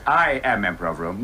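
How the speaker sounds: mock posh Roman emperor. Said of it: "the Emperor of Rome is always".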